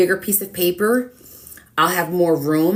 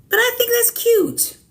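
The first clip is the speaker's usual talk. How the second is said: cute squeal, much higher and louder; squeaky cute; 4 dB louder than usual. Real, not acted. Talking to viewers about her painting, high cute squeal. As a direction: squeal it out like it's adorable.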